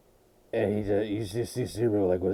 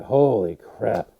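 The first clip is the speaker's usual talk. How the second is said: stunned disbelief; 6 dB louder, much slower than usual. Retold or imitated. Reacting to post-credit reveal.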